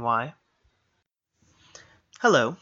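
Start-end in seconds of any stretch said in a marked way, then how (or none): 2.2-2.6 a louder, chirpy bird's hello; a lightly voiced robin answering the man; chirped bird reply. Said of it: "the bird chirped back".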